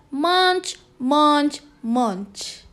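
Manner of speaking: "munch" said three times, each cut off by a pause; the teacher shows how "munch" is read; munch with breaks. Shown as a demonstration. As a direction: chomp out "munch" word by word. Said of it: "the way it's being pronounced".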